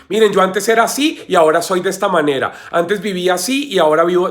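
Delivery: testimony giver. Acted. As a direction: lightly imitate someone rattling off a testimony. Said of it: "y decir".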